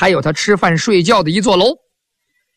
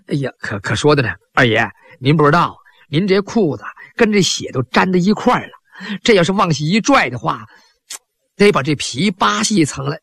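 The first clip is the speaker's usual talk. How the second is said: lower, deferential servant; lightly voiced humble servant, lower pitch; servant's voice; 3 semitones lower than usual. Servant carefully explains the blood to the master, low and deferential.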